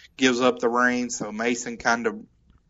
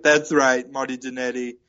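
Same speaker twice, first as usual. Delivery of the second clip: gruff bulldog voice. Retold or imitated. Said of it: "I really wish I could talk like Bulldog".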